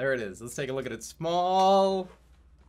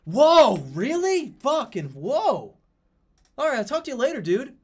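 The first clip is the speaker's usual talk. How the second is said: much higher, louder, oblivious goofy voice; mock airhead; 10 semitones higher, 6 dB louder than usual. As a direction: play a clueless dude barely noticing the disaster. Continues the goofy dude voice.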